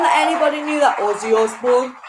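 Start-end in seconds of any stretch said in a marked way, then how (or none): 1.0-2.0 badly faked Birmingham accent; terrible Birmingham accent. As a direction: have a jokey go at a Birmingham accent. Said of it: "that was my Birmingham accent".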